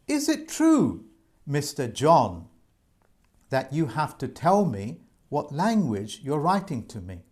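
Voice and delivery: a hint of courtroom cross-examination; mock barrister questioning. Adviser imitating a barrister questioning a debt collector, lightly mock cross-examining. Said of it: "like the barristers do. They say".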